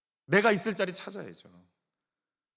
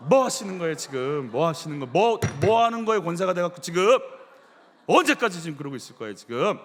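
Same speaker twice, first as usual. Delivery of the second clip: loud hammed-up scolding, building; mock scolding; 6 dB louder than usual. Pastor leads congregation scolding their neighbour in play. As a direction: tell off the neighbour like an angry elder. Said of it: "시작".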